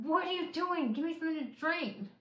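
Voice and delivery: a touch of retold frustration; mild mock anger. To her husband who brings bread, a mild mock angry complaint. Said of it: "so mad".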